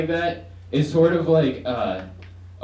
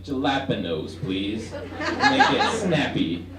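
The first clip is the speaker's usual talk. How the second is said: careless, not trying; slower than usual. Retold or imitated. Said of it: "say it like I'm not trying at all".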